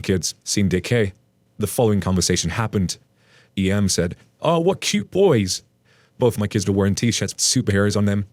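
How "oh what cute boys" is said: high, slow, sugary mock voice; mock sweet entitled mom. Narrator mimics entitled mother cooing over the kids, high and slow. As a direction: play the fake-sweet stranger cooing at kids.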